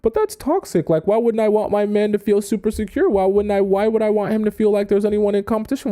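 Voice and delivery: high, sing-song mock objection; lightly mocking girly indignation; naive girlfriend voice. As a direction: mimic the idealistic viewer's protest. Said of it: "you're thinking".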